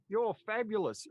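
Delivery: big swooping compliment, quoting her; retold great enthusiasm. Bar worker praises a customer, imitated enthusiasm. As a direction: imitate a loud, high-pitched gush. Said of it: "say that to me with great enthusiasm".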